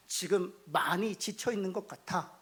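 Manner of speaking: soft, slow understanding; gentle empathy. Acted. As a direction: soothe a worn-out person. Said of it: "아니라". (천천히 부드럽게 공감하듯)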